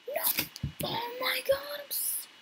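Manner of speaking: whispered oh my god, high and breathless; a hushed, stunned oh my god; shocked whisper. Real, not acted. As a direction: gasp it under your breath.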